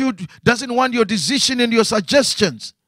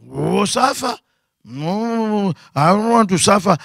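mock reluctance. Preacher mimicking a believer who hears they must suffer, mock reluctant. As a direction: imitate a believer balking, dragging out the no.

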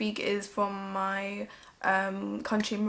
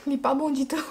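laughing self-mockery; 3 semitones higher, 5 dB louder, much faster than usual. Real, not acted. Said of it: "mon accent, il est pas bon".

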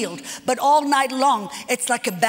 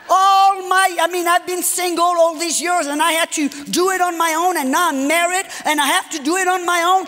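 raised, louder frustrated outburst; exasperated wife complaining, voice raised; retold angry rant; 4 semitones higher, 4 dB louder than usual. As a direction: vent the old resentment at him. Venting anger at sleeping husband.

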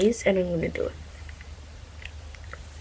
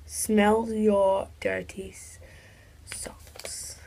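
whispering; 6 dB quieter, much slower than usual. Real, not acted. Whispering the dare.

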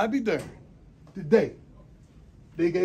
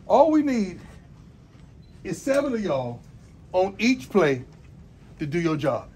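rising, louder call to the team; pep speech; 4 semitones higher, 7 dB louder than usual. Real, not acted. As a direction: fire the players up, building. Coach fires up team.

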